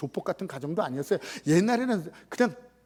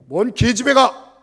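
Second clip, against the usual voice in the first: loud, slow scolding shout; shouting down a teenage girl who wants to enlist; stern uncle scolding; 5 semitones higher, 14 dB louder, slower than usual. Retold or imitated. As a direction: bellow it like a strict old uncle. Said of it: "오빠가 좀 엄하셨어요".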